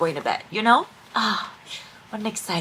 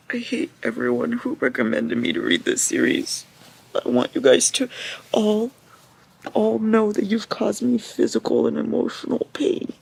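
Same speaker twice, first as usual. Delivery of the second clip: wailing blame, climbing high and loud; anguished accusation; 6 semitones higher, 3 dB louder than usual. Real, not acted. Reader blaming those who recommended the series, anguished accusation.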